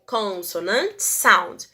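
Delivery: slow, careful "Consonant sound" with each syllable drawn out; teacher model word. Shown as a demonstration. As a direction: spell out "Consonant sound" slowly for the class. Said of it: "um som de consonante sound".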